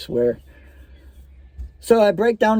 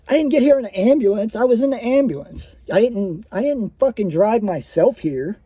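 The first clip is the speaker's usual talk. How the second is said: higher, indignant retelling of a crying patient; retold tearful protest; 4 semitones higher than usual. Hurt patient disputing nurse's ambulance claim, mock-tearful higher protest. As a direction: imitate an upset patient insisting, without real sobs. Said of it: "I'm sitting here crying".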